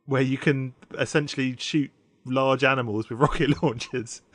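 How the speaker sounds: trying not to laugh while explaining; laughter breaking into the words; tickled despite finding it horrible; amused, stifled laughing. Real, not acted. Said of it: "I don't know why I'm laughing at it".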